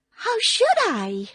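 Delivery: put-on frightened girl. Frightened Dorothy answers.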